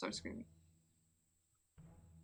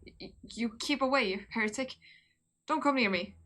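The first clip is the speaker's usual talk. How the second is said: stammering snarl; 4 dB louder than usual. Acted.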